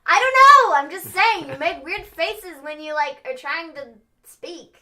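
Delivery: high, loud self-defence; exasperated protest. Real, not acted. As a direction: burst out loudly, pitch leaping up. Exasperated self-defence after being teased.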